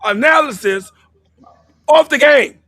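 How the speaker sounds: slow, loud and emphatic; heated shout. Real, not acted. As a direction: drive the last words home at full volume. Heated argument climax.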